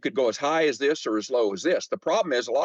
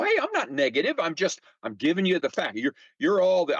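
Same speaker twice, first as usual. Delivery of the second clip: higher, defensive mock protest; 5 semitones higher than usual. Defending himself against the Negative Nancy nickname, mock protest. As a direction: brush off the nickname with a grin. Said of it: "And I go".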